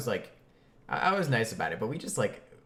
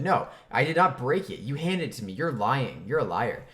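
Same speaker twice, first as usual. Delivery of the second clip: 1 irritated; 3 semitones higher, 5 dB louder than usual. Retold or imitated. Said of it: "I got irritated as well and said".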